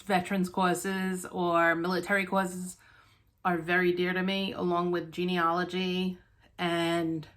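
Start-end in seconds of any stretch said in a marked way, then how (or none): 3.4-7.3 talking while short of breath; breathless between words. Real, not acted. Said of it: "very out of breath today, guys".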